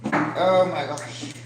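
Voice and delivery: slow, choked-up sigh of words; emotional, choked up. Real, not acted. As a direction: let it out slowly, moved close to tears. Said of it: "I do get emotional over this".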